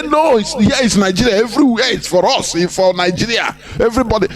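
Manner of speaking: high, sing-song mock of the herdsmen's boast; mocking imitation. Mocking herdsmen who claim every land is theirs, sing-song and high.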